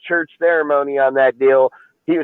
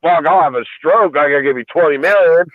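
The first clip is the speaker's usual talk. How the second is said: mock Mark Davis; 3 semitones higher than usual. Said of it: "he'd be like".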